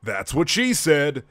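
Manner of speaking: canned machine "That's what she said"; device voice. Acted. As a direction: play it like a gadget going off. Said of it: "it emits a".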